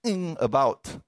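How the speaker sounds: puzzled onlookers. Retold or imitated. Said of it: "everybody's wondering".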